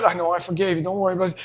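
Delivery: put-on calm the child down kindly; reassuring father.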